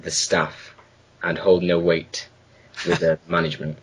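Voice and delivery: formal disclaimer reading. Acted. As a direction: read it like legal small print. Reads mock legal disclaimer.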